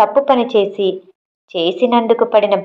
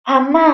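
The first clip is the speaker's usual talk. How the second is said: put-on child's cry of pain; 4 semitones higher than usual. A narrator's reading. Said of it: "ఆ అరుపుతో".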